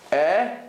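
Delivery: "Eh" as a wide open vowel; open segol sound. Shown as a demonstration. Teacher contrasting segol with tserei, open eh. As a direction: hold out an open "Eh".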